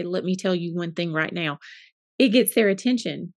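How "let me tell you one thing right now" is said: lower, softer firm parent voice; low firm warning to kids. Retold or imitated. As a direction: drop the voice low to get their attention. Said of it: "when I lower the voice and say".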